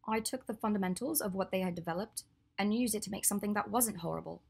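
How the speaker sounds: lightly voiced Hermione. Hermione explaining her prosthetic design to Draco, lightly voiced.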